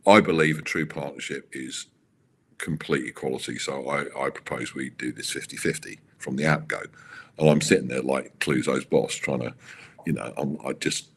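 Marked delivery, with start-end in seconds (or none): 0.1-6.8 solemn Max impression. Max proposing an equal partnership, lightly voiced with mock solemnity. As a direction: intone it like a grave statesman, understated. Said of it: "Max like".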